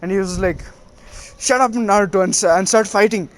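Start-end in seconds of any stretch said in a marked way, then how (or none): 1.4-3.3 mildly flustered, indignant retold outburst; lightly acted embarrassed outburst; flustered retort. Neji tells Naruto to start fighting, mock flustered. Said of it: "face became red in embarrassment".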